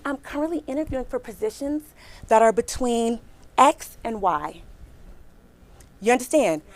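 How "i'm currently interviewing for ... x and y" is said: softer, calm and smiling; with a smile. Shown as a demonstration. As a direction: coach showing how to answer the recruiter. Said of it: "I want you to say it just like this, with a smile".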